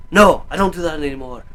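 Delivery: lightly imitated grumbling ogre; a hint of a movie ogre refusing; Shrek. Ogre turning down a pestering kid, lightly imitated. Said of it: "Like, that type of voice".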